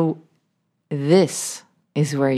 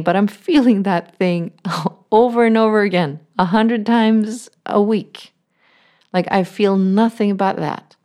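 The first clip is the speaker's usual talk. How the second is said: higher, half-laughing protest; frustrated objection; 5 semitones higher, 4 dB louder than usual. Retold or imitated. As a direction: push back like a fed-up student, with a laugh. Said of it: "And you might be saying".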